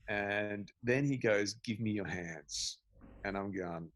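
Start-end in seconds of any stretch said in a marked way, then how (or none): 1.6-2.8 slow, soft, measured request; quietly unhurried instruction; calm mentor. Retold or imitated. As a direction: ask it slowly and softly. Voices the calm mentor's odd request.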